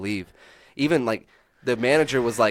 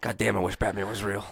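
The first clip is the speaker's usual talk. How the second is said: mock wannabe cop; 3 semitones lower, 6 dB quieter than usual. Mimicking a wannabe-hero cop.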